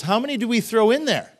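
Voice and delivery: high, incredulous question; astonished king. Retold or imitated. Nebuchadnezzar asking about the furnace, astonished high voice. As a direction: ask it in mock disbelief, pitch leaping up.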